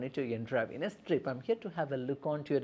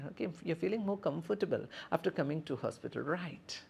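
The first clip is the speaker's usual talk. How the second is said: caring nurse check-in; 4 semitones higher than usual. Shown as a demonstration. Nurse asks about patient.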